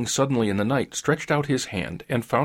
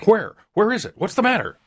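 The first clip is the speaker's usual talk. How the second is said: high-pitched, startled questions; startled awake, voice leaping up in alarm; 11 semitones higher, 5 dB louder than usual. A narrator's reading. Old man woken by his wife's cry, alarmed. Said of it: "He started up in alarm".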